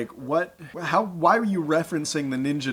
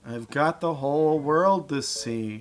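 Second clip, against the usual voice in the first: bored sarcastic; slower than usual. Retold or imitated. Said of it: "he just sounds really interested to see that whole world".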